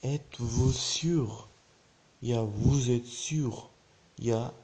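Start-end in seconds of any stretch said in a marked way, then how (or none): 0.0-1.5 very slow, stretched-out French question; slow model pronunciation. Shown as a demonstration. Teacher showing learners how to ask, very slowly. 2.4-3.7 very slow, word-by-word French; slow model pronunciation. Shown as a demonstration. Teacher giving learners another phrasing, very slowly.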